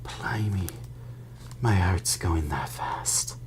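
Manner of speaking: slow breathless whisper; shaken whisper. Acted. Stan recovering from the shock, slow whisper. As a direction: whisper it as if winded.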